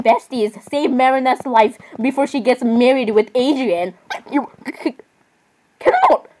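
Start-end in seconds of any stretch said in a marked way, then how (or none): 4.3-6.3 very high, squeaky "You cannot"; squealed catchphrase. Acted. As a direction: squeal it in mock disbelief.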